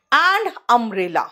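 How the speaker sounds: umbrella stretched with a short uh; slow contrast with university; very slow demo. Shown as a demonstration. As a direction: say umbrella slowly. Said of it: "अ आया".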